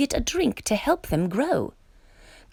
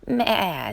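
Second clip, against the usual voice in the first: goat bleat. Acted. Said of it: "said Goat".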